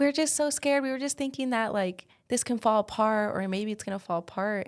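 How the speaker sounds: high-pitched, anxious retelling of the buyers' worry; mock scared client. Client voiced in retold story.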